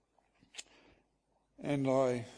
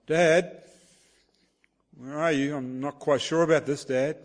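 put-on somewhat raised child's call for Dad; a bit louder; 4 dB louder than usual. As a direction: raise the voice a little, unsure. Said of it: "a bit of a louder voice".

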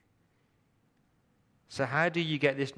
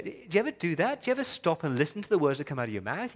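probing question; 6 semitones higher, faster than usual. Real, not acted.

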